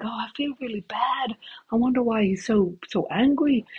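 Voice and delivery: high, naive imitation of Ian; imitating Ian. Ian wondering why Steve is angry, high and naive. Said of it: "And Ian's like".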